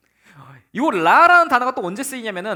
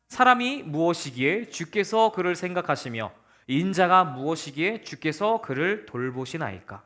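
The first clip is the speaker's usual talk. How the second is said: scripture reading; 5 semitones lower, 5 dB quieter than usual. Shown as a demonstration. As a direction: read the verse aloud together. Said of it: "같이 읽어봅시다".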